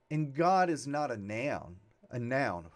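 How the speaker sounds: slight Texas twang on noun; a touch of Texas accent in the vowel of "noun". Real, not acted. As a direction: let Texas slip into "noun". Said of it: "that was a Texas accent".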